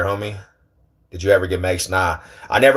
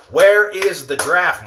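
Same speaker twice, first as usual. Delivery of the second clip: slow, higher-pitched insistence; playful demand; 5 semitones higher, slower than usual. Pretend. Streamer pressing his brother for the draft, playful demand. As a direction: drag out each word of the question.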